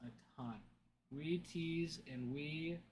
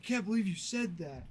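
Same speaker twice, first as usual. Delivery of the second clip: mock outrage; 3 semitones higher, 6 dB louder than usual. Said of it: "he was so mad".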